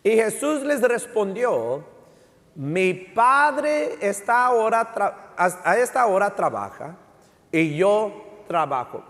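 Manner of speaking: slow, emphatic Bible reading; scripture reading. Real, not acted. Preacher reading John five to the congregation, slow emphatic scripture reading. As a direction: read the verse out slowly, phrase by phrase.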